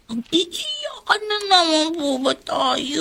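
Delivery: put-on child's tearful protest; on the edge of crying, pushing back; a child fed up, voice starting to break; tearful complaint. Child upset at crying mother.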